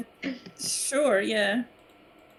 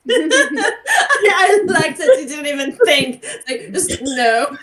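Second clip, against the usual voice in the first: talking through giggles, slowed; can barely get the words out for laughing; 5 semitones higher, 8 dB louder, slower than usual. Real, not acted. Laughing at the blunt no.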